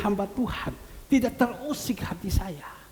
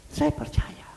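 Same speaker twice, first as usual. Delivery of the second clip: whispered; slower than usual. Real, not acted. Whispered conviction.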